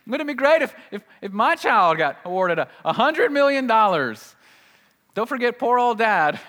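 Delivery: mock dreaming. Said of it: "we think".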